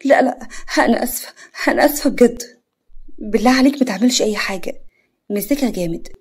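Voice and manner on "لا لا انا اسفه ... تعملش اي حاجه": fearful. Acted. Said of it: "بخوف".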